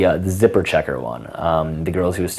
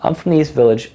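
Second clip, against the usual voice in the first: higher mock girl voice; imitating a woman; 8 semitones higher than usual. Shown as a demonstration. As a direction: play her light answer.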